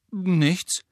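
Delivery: quick answer. A narrator's reading. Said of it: "sagte Ron schnell".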